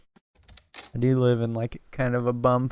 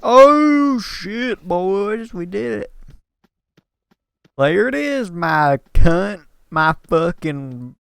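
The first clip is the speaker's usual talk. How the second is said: excited yell; 6 semitones higher, 6 dB louder, slower than usual. Real, not acted. Finally finding the item in game.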